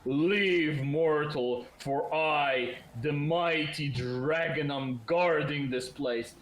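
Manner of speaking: mildly booming guardian's warning; thundering walls. Acted. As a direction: lightly voice a mighty dragon guarding its hoard. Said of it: "as thundering walls will say".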